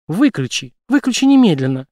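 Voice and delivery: rising to a loud, high cry to switch it off; angry demand. A narrator's reading. Jane shouting at Brace to switch off the light, angry. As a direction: snap the order, then shout the second.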